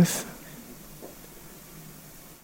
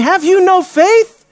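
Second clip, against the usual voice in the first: higher, louder, slow reproach; stern rebuke; 9 semitones higher, 4 dB louder than usual. Retold or imitated. Jesus rebuking the frightened disciples, slow and stern. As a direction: press each word of the rebuke.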